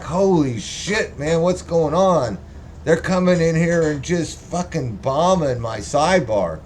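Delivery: high, mock-panicked friend. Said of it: "He's like".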